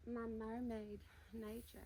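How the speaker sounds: slow Southern drawl on "My mermaid nature"; playful Southern accent. Shown as a demonstration. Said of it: "I love speaking in a southern accent".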